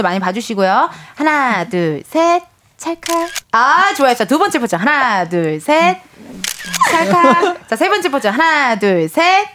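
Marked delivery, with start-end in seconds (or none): 2.8-3.3 camera shutter click. Pretend. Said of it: "저희가 찰칵 넣어드릴게요, 효과". 6.9-7.7 camera shutter click. Pretend. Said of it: "저희가 찰칵 넣어드릴게요, 효과".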